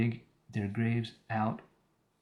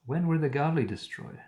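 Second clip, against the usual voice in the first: higher, sing-song mocking question; silly intonation; 5 semitones higher than usual. Shown as a demonstration. Reader voicing Eliphaz to make him sound silly, mocking. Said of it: "so that he sounds as silly as he is".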